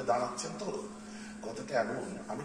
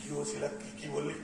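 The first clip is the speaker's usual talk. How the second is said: ordinary talk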